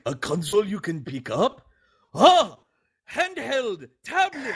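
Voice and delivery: high, confused mock voice climbing on each word; mock Miyamoto. Miyamoto mishearing the marketing people, in a high puzzled voice. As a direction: play a baffled Nintendo boss who misunderstands. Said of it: "Shigeru Miyamoto was just like".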